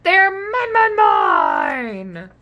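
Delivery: loud, high, grabby mine; snatch the words like the tarts; a dino hoarding the snacks; greedy claim. Acted. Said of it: "bit the butter tarts and said".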